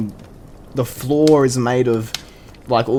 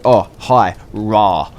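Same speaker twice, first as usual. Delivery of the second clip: half-hearted scare; 3 semitones lower, much slower than usual. Retold or imitated. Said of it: "looked like he was just checking his phone".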